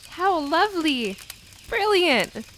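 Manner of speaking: high, bright cheer; excited cheering. Acted. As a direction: cheer her on loudly. Friends cheer at art show.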